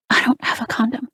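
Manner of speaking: high, breathy and airy. A narrator's reading. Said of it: "I say in a breathy voice".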